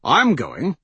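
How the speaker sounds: mildly nervous, rising question. A narrator's reading. Malcolm learns he joins the hunt, nervous query. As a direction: ask it uneasily, lifting at the end. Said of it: "Malcolm asked nervously".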